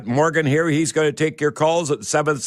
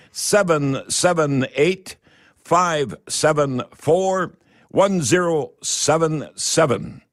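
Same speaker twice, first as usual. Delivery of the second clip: slow dictation; slower than usual. Real, not acted. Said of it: "write down this number".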